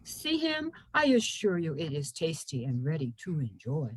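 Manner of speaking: lightly voiced talking tree; swooping, lilting storybook delivery; poem's tree voice. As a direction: play a helpful tree, gently coaxing.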